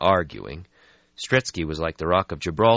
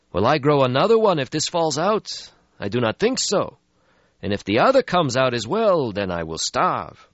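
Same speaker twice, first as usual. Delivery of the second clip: put-on weary old vampire; 9 semitones higher, 5 dB louder than usual. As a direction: sigh out an ancient regret. Stretsky voiced in story.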